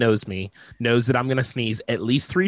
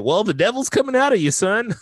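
great-grandmother; 8 semitones higher, 3 dB louder than usual. Retold or imitated. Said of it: "she would just say".

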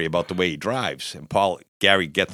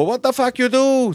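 high-pitched, loud mock outrage; outraged yell; 5 dB louder than usual. Doorman confronting couple in a booth, outraged yell. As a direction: act out a doorman catching them at it.

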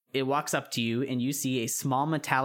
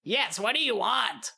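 much higher, slow frog echo; 10 semitones higher than usual. Acted.

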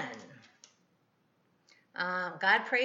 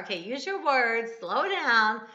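louder, eager retold coaxing; excited for her; 5 semitones higher, 6 dB louder than usual. Grandma urging her little granddaughter to explain, retold excitement. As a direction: encourage a small child with mild excitement. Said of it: "I'm all excited for her".

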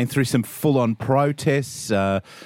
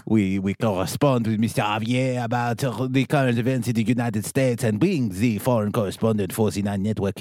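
mock Spanish accent. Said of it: "Not your worst accent".

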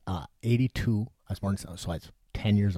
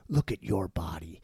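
Thulsa Doom whisper. Retold or imitated. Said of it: "he says".

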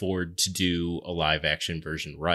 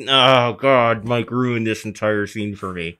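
mock despair, a bit louder; exasperated groan; 4 dB louder than usual. Friend complaining to cohost that he ruined the scene, exasperated. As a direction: throw up your hands at the ruined scene. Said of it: "I was just like".

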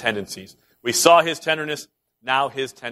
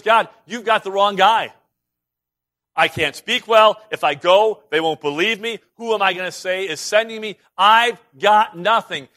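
loud, high protest; a man begging to be let off; pleading Moses; 4 semitones higher, 5 dB louder than usual. Retold or imitated. Moses protesting to God, loud and pleading. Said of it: "And he says".

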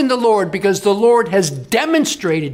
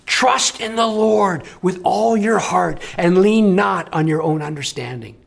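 King Solomon. Acted. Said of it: "the concern in his gravelly voice".

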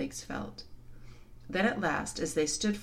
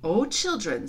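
exultant lion; 4 semitones higher, 5 dB louder than usual. A narrator's reading. Revived lion calls to children.

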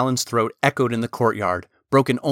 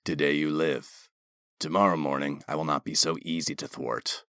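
dry stern commander; 7 semitones lower, 7 dB quieter than usual. A narrator's reading. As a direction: deliver it dry and cold, low. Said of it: "the commander dryly stated".

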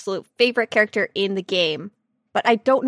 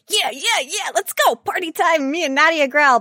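a few semitones up, cheering yeah yeah; eager cheer; 5 semitones higher than usual. Retold or imitated. Gamer cheering to friend about a romance, eager. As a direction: pump it up like a party. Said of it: "I'm like".

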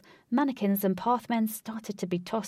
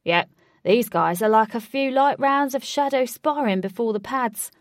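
cheerful; 4 semitones higher, 7 dB louder than usual. Acted. Fighter enjoying the brawl.

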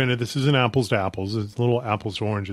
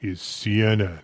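slow network ident, lightly put on; low announcer voice; slower than usual. Shown as a demonstration. Host tries out for the network job, mock announcer voice. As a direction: try for a weighty announcer voice. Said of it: "my voice would be maybe low enough".

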